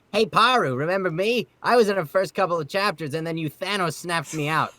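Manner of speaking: playing Kai calling out to Paru; voicing Kai. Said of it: "requested for me to say as Kai".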